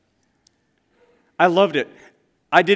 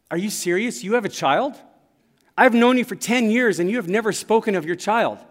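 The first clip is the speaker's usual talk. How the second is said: higher, louder, incredulous coworker; coworker's shock; 6 semitones higher, 4 dB louder than usual. Retold or imitated. Coworker learns of a hidden child, stunned and higher. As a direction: play the coworker gasping at the news.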